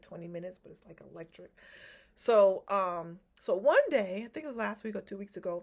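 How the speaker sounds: normal talking voice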